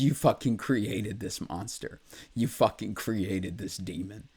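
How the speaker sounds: mild mock outcry at his family; emotional inner scream. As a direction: let the pain push the quote upward. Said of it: "Sorry, I'm getting a little emotional".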